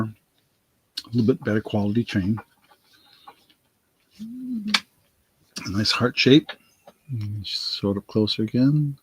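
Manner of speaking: talking around a lozenge; lozenge in mouth. Real, not acted. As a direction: speak with a lozenge in your cheek. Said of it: "got a lozenge in my mouth".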